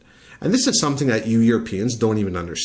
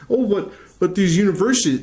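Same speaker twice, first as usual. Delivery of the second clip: mock objector; 9 semitones higher, 3 dB louder than usual. Mocking an imagined objector.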